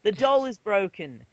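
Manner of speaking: high hammed-up sports announcer. Announcer commentating on the doll fight, hammed-up. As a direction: call it like an excited arena announcer. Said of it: "that's the announcer accent".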